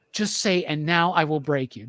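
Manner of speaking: retold plea, now fully voiced; willing a character to say it; insistent pleading. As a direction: urge it a second time, firmer. Repeats the plea, more insistent.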